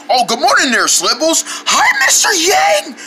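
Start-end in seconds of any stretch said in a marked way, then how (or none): 1.5-3.0 very high, strained wheezy squeak; wheezy squeak of someone who screamed too much; lost voice. Acted. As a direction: squeeze the words out through a blown-out voice. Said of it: "what's with the new voice?".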